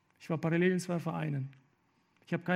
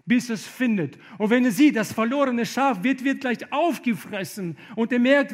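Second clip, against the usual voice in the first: loud, higher, urgent preaching; preaching at full force; 4 semitones higher, 8 dB louder than usual. Acted. Preacher urging listeners to come to Jesus, loud and high. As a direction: call the lost sheep home, full voice.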